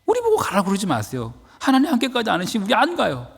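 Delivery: high, urgent plea to God; Moses pleading. Acted. Moses begs God to go with them, high and urgent. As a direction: beg like Moses refusing to go alone. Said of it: "모세는 다시 하나님께 호소합니다".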